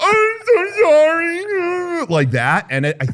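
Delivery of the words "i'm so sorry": very high, drawn-out, whimpering fake sob. Speaker acts out what she does to make angry men madder, fake crying. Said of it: "I start fake crying and I go".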